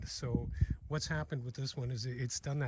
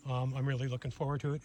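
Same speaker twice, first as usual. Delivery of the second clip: muffled through a bug jacket net; 4 dB louder than usual. Real, not acted. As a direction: voice muffled by netting. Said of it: "if I sound a little bit muffled to you".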